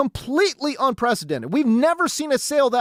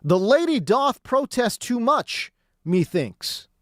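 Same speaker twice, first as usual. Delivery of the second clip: Shakespeare quote; slower than usual. Retold or imitated. Host quoting Hamlet about Kasten, slow and theatrical. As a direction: recite it like a Hamlet actor. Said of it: "All I think about is Shakespeare".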